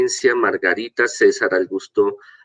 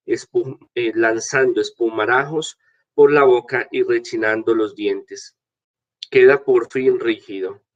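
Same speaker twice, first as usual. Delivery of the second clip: scripture reading; 2 semitones higher than usual. Acted. Priest reads the gospel aloud.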